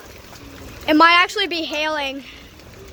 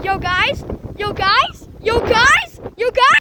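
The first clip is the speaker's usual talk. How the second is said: building excited call; 5 semitones higher, slower than usual. Real, not acted. Storm arriving, calling out.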